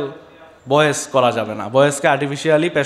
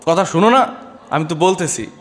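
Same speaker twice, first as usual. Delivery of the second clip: mock phone shouting. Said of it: "গলা ফাটায় চিৎকার করতে থাকে".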